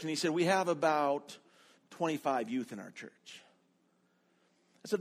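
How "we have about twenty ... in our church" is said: lightly imitated Ethiopian accent, measured delivery. Student answering about youth numbers, in a lightly imitated Ethiopian accent. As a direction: give the figure in a mild Ethiopian accent. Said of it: "in his perfect Ethiopian accent".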